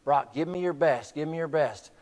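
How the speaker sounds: understated coach's yell, no real volume; mock yell. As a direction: urge on a player in slow, held-back cries. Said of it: "coach is yelling at him".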